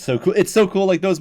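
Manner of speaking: high, loud burst of delight; gushing. Real, not acted. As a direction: gush about the legend. Gushing about the book.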